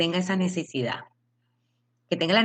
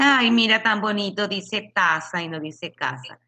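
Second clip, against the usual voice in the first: mock doting family; 4 semitones higher than usual.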